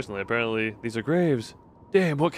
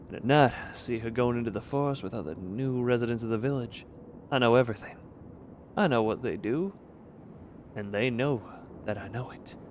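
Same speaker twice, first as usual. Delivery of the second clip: put-on improvised Russian accent, trailing softer; 3 semitones lower, 7 dB quieter than usual. Streamer reading out a villager's secret note, put-on Russian accent. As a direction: read it gravely in a dubious Russian accent. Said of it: "this is the accent for Russians".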